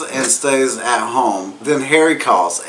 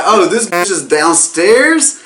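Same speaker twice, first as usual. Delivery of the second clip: excited; 7 semitones higher, 4 dB louder, slower than usual. Retold or imitated. Harry's excited realization.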